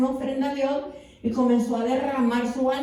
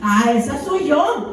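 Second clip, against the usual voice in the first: laughing; 4 dB louder than usual. Retold or imitated. Laughs joining the call.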